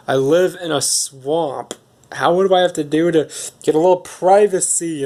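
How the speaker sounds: mock-exasperated, rising in pitch on the plea; exasperated ogre. Ogre wants privacy in his swamp, hammed-up exasperation. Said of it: "And then he goes".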